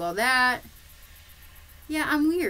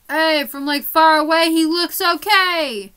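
overly cheerful; 7 semitones higher, 9 dB louder than usual. Real, not acted. Defending unfinished painting.

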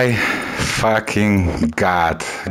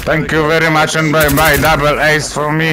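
gloating sign-off, pitched up; triumphant catchphrase; 3 semitones higher than usual. Real, not acted. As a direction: crow it out like a victory line. Triumphant catchphrase after double ace.

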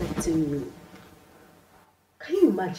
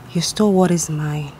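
louder, hard-edged accusation; bitter accusation; 4 semitones lower, 5 dB louder than usual. Acted. Rival accusing the thief, bitter and loud. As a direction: lay the blame on her, hard.

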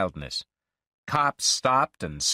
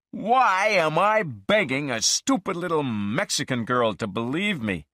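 mild mock shout; 5 semitones higher than usual. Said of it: "I shouted".

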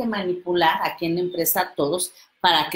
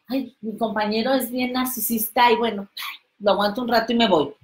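resigned coworker; 2 semitones higher, faster than usual. Retold or imitated. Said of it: "imagínate".

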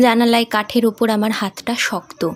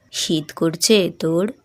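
father's voice; 5 semitones lower, slower than usual. Acted. Father to his feverish daughter, lower and slower. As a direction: lower and slow, gentle father.

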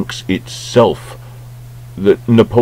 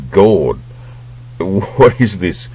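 laughing disbelief; 2 semitones higher, slower than usual. Real, not acted. Mocking the costume.

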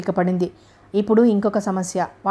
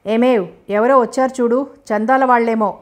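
calling out loudly; 3 semitones higher than usual. Acted. Old father calls his wife to the door, raised voice. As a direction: shout for the wife across the house. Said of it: "అంటూ అరిచాడాయన".

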